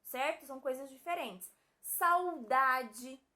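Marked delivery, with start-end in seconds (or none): 1.8-3.2 "Saudade" slowly split as "sa-u-da-de"; syllables sounded out. Shown as a demonstration. Teacher shows U after the syllable, drawn-out "Saudade". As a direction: dwell on the "sau" in "Saudade". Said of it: "O U está depois da sílaba sa".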